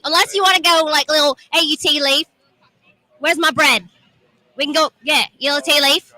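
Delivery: playful Cockney slang voice; Cockney accent. Pretend. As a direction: put on a jokey London Cockney accent. Jokey switch to London slang.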